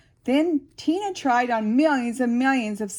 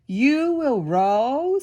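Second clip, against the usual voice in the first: grandfather; 3 dB louder, much slower than usual. Acted. Grandfather speaks in story.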